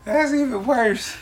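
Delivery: laughing. Real, not acted. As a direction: say it through laughter. Repeated while laughing.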